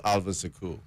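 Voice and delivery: "Suku" as suh-KOO, second syllable stressed; corrected pronunciation. Shown as a demonstration. Co-host correcting the host's name reading, "Suku" stressed on the last syllable. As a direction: say "Suku" with a short first syllable, weight on the end. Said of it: "pronouncing Suku a little bit different".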